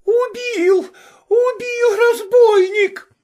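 very high, loud wail; screaming. Acted. Vasilisa on the floor screaming at the cook. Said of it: "закричала".

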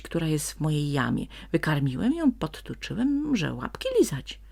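high, loud cunning coaxing; sly persuasion. A narrator's reading. Crafty fox tries to trade the goose for his life. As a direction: sell the goose slyly. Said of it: "zaczął wychwalać Ziółko chytrze".

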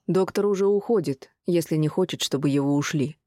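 жёстко, с угрозой; ровная каменная угроза; каменный жёсткий голос. Acted. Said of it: "каменным и жёстким голосом". (жёстким каменным голосом)

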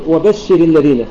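slow وبشر الذين, stress kept on بش; stress as in pausing. Shown as a demonstration. Teacher linking the word, وبشر stressed on بش. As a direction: join وبشر to الذين keeping the ر light. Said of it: "اوصل الكلمة".

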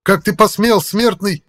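high, loud enraged roar; furious demon voice. A narrator's reading. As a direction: rage at the mortal. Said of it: "прогремел Жак полным гнева голосом". (гневный демонический голос)

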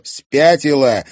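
loud, drawn-out outrage; indignant. A narrator's reading. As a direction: stretch it out in disbelief. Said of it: "возмутился Тимофей".

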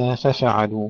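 ففعلوا with a vowel slipped in on the second fa; fa-fa-alu instead of faf-alu; common mispronunciation. Retold or imitated. Teacher quoting students' mistake, extra vowel on fa. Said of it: "كما يقول كثير من الإخوة".

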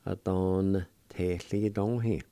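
Atontetlitonhi said slowly as one connected word; Atontetlitonhi, measured and joined up for a learner; pronunciation demo. Shown as a demonstration. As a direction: model Atontetlitonhi in one careful run. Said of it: "it'll be pronounced like this".

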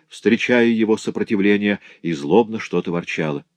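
usual speaking voice

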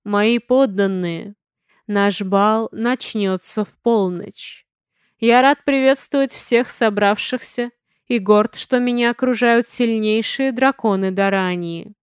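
slow, booming address echoing through a hall; magically amplified voice. Acted. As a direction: speak slowly as if your voice fills a great hall. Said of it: "усиленный магией, эхом разнёсся по залу".

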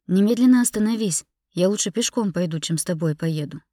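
indignant outburst fading toward the end; angry demand. Acted. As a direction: order him to stop, then ease off. Wife demands husband stop the car.

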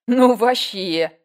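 громко, медленно, по-подростковому; растянуть как подросток; teen slang. A narrator's reading. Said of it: "перешла на сленг подростков Коткина". (подростковый сленг в разговоре с подругой)

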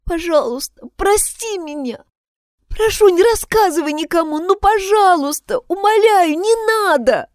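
high, pleading voice near tears; tearful pleading. A narrator's reading. Kathleen begs not to be told on, tearful pleading. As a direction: beg through tears not to be exposed. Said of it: "Внутри кто-то кричал и плакал".

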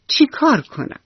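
high, bright eager question; eager little mouse. Acted. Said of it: "موشی با خوشحالی گفت". (سؤال مشتاقانه و زیر موش کوچولو)

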